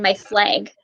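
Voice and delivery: "flag" with the short A said as a long A, like "flayg"; Minnesota flag. Shown as a demonstration. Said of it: "we say".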